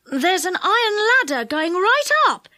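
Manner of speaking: high, excited call. A narrator's reading. Joe calls down to the others about the ladder, excited. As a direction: call out your discovery excitedly. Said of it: "he called in excitement".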